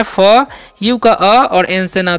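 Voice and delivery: slow letter-by-letter sounds; sounding out. Shown as a demonstration. Teacher sounding out letters for students, slowly. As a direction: break the word into its sounds slowly. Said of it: "एफ का उच्चारण क्या करना है".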